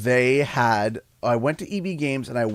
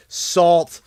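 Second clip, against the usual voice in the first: mock taunt; 3 semitones higher, slower than usual. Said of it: "people that used to be, say".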